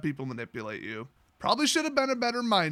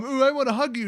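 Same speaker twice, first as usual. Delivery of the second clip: higher, mock-affectionate coo; mock gushing; 5 semitones higher, faster than usual. Mocking Vraska's sudden wish to hug, gushing. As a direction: gush with exaggerated affection.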